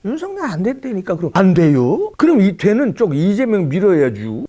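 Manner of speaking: high, loud pushy pitch; mock persuading. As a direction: needle the locals, overacted. Imagined persuasion in Chungcheong. (충청도 사람들 꼬드기는 흉내)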